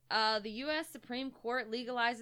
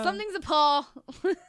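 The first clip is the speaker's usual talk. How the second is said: mocking repeat; 6 semitones higher, 9 dB louder than usual. Mocking the paw correction.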